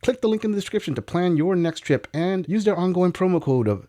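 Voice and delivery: lively promotional read, pitch often lifted; sponsor ad read. Acted. Host pitching cheap flights to viewers, ad read. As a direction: sell it like a sponsor spot.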